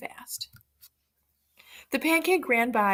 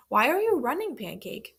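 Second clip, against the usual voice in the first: sly fox; 3 semitones higher than usual. Acted. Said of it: "the fox asked".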